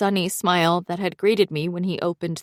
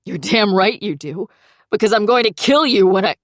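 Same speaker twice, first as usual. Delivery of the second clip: mock threat; 3 semitones higher, 6 dB louder than usual. Angry friend threatening over phone.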